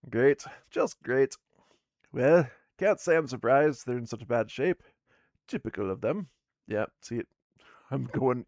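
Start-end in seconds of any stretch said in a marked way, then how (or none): 0.1-6.3 she's fed up but not surprised; exasperated dwarf woman. Acted. Dwarf woman grumbling about useless partners, loud sarcastic voice.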